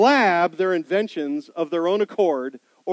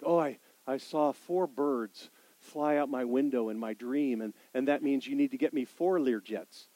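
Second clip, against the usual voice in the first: mock false prophet; 5 semitones lower, 6 dB quieter than usual. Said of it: "false prophets shaped their prophecies".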